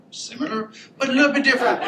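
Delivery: laughing at his own joke. Real, not acted. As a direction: break into a laugh mid-line. Joke about Marines versus Corps.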